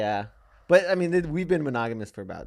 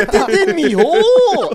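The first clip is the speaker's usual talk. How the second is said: high hammed-up come-on, laughing through it; mock porn seducer; 14 dB louder than usual. Podcast host acting out a porn scene, mock sleazy come-on voice. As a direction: ham up a sleazy seducer, giggling.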